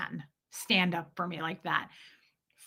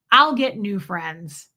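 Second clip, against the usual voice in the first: loud, slow, weighty; husband defending wife, loud and slow; firm declaration; 6 dB louder, slower than usual. Retold or imitated. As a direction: lay each word down hard. Fred firmly declaring.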